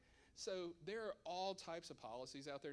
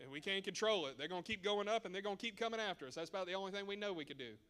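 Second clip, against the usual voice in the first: louder, fast, laughing at the taxes; laughing rant; 3 semitones higher, 6 dB louder, faster than usual. Real, not acted. Adviser joking to the audience about taxes, louder and fast. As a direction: get worked up and laugh it off.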